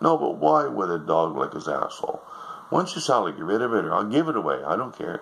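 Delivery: high, shrill-pitched complaining wife; nagging wife. Acted. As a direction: whine it like a disgusted wife. Wife demands dog go.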